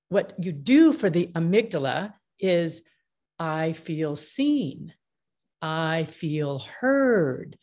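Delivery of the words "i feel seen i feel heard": heartfelt relief. Acted. Voices the relieved, validated person.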